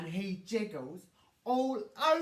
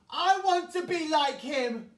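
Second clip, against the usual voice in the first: crying out eagerly; 4 semitones higher, 7 dB louder than usual. A narrator's reading. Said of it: "Ronald cries out".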